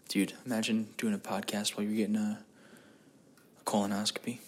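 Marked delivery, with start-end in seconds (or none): 3.6-4.4 hushed, breathy punchline; whispered aside on the gross word. Real, not acted. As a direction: drop it to a whisper like a secret.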